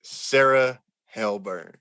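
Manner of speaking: announcer-style sign-off; slow host outro, like closing the show; podcast outro. Acted.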